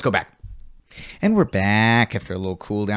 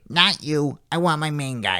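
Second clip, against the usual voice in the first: put-on old lady voice; 4 semitones higher than usual. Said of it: "Such a, such a specific voice".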